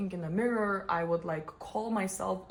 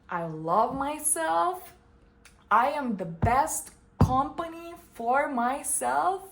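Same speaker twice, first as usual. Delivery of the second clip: self-affirmation; 5 semitones higher, 5 dB louder than usual. Retold or imitated. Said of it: "I flip the thought and I'm like".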